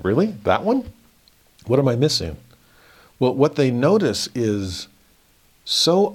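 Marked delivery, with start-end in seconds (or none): 0.0-2.4 incredulous. Retold or imitated. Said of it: "And it's like".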